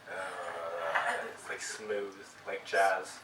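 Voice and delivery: radio voice. Shown as a demonstration. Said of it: "Say something in your radio voice".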